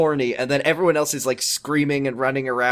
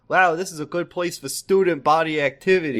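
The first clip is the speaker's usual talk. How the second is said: mock enthusiastic teen; 4 semitones higher than usual. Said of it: "because they were like".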